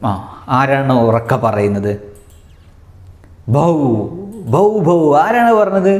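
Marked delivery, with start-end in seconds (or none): 3.5-5.0 higher-pitched mock barks; teacher's demonstration of barking; imitated dog bark. Shown as a demonstration. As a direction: mimic a dog's bow-wow. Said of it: "ഡോഗിൻ്റെ ശബ്ദമാണിത്".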